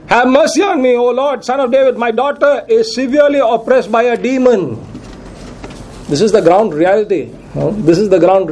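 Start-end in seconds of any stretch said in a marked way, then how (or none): 0.1-4.8 pleading cry. Retold or imitated. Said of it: "She was crying".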